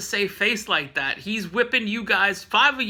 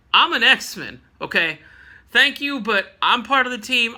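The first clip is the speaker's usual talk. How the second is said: defiant Jean; 4 semitones higher, 5 dB louder than usual. Retold or imitated. Jean insists on fighting.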